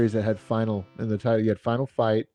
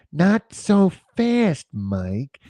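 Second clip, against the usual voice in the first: cartoon gangster voice, much higher and slower; 6 semitones higher than usual. Telling who someone sounds like, quoting how he goes: Roger Rabbit weasel gangster voice. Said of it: "You know who he sounds like the the gangster when he goes".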